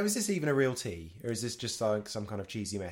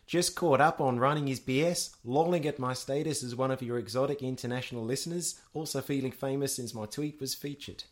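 put-on New Zealand accent. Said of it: "That was my good New Zealand accent".

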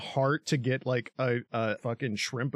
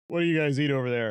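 clueless American; faster than usual. Retold or imitated. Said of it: "such an American thing to just be like".

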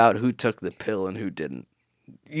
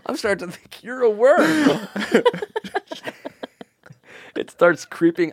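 mock horror; 10 semitones higher than usual. Mock horror accusing Jake.

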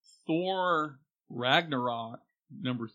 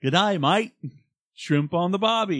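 mock Australian accent; 5 semitones higher than usual. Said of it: "he got Americans going".

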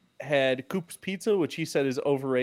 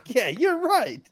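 higher, drawn-out mock yes; sarcastic agreement; 9 semitones higher, much slower than usual. To the doctor about ADHD, sarcastic agreement. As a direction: agree with heavy irony.

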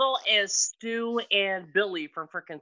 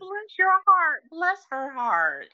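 mock Southern saying; 8 semitones higher, slower than usual. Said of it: "is an F U from Southern people".

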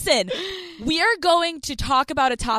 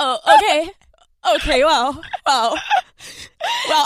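mock choked-up, laughing through it; a hammed-up brave face with a laugh; halting, fighting off mock tears; holding back tears; 3 dB louder than usual. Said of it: "you're holding back the tears".

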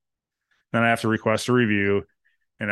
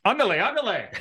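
mock Mexican accent; 10 semitones higher than usual. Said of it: "can I at least use words like".

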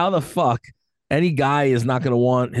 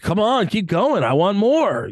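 mock lover's moan; 5 semitones higher, slower than usual. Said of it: "yeah, like".

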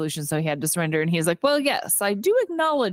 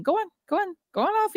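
much higher, jeering urging; mock pirate shove; 12 semitones higher, faster than usual. Crew taunts the blindfolded XO toward the plank, jeering. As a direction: egg him on like a gloating pirate.

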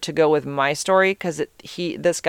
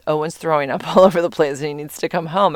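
retold line with a slight suppressed laugh; holding back laughter. Daughter phoning mom with a fake emergency, trying not to laugh. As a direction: let a little laugh slip through while quoting. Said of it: "She's trying not to laugh".

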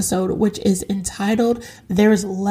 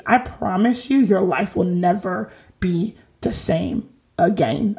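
Chris Jericho. Acted. Host promises listeners a changed life, light Chris Jericho impression. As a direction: lightly mimic a wrestler, drawing out the words. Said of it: "that was my Chris Jericho accent".

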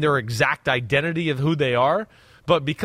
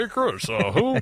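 higher, put-on hosting voice; mock host voice; 5 semitones higher than usual. Co-host teasing the other about hosting, mock presenter voice. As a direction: tease your partner by mimicking their hosting voice. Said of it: "That's how you talk".

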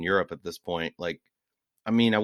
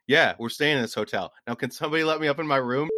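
testy comeback, pitch rising into the demand; retold exasperated demand; 5 semitones higher, 4 dB louder than usual. Guest retorting to the rude man at the hotel bar, exasperated. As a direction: recount an irritated guest's retort. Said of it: "you said it like that?".

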